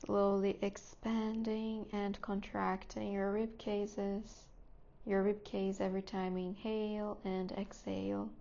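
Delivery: calm, unhurried guidance with long pauses; guided meditation. Real, not acted. Teacher settling students into seat, breath and body, guided meditation voice. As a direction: ease them gently into stillness, phrase by phrase.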